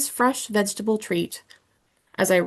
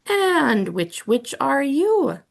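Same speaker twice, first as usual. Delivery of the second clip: slow, teasing spooky question; strange skeleton voice; 4 semitones higher, slower than usual. Acted. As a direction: draw out the riddle. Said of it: "in a strange, high-pitched voice".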